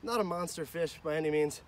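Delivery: distant, quiet recap; far from mic. Real, not acted. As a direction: speak from across the bank.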